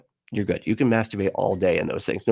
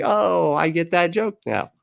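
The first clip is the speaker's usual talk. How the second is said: imitating sudden realisation; 8 semitones higher than usual. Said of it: "You're like".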